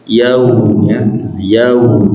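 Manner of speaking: yaum with ya and w evenly timed; even, level yaum. Shown as a demonstration. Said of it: "itu bacanya datar saja".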